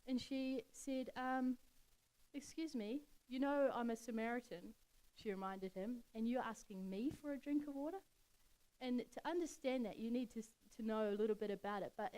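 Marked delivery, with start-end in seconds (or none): 2.3-4.7 shocked. Acted. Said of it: "But she was shocked". 6.1-8.0 shocked. Acted. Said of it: "But she was shocked".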